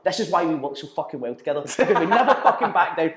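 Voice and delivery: breaking into a laugh on the last words. Retold or imitated. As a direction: quote the friend, who laughs as he says it. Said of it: "he turns around and goes".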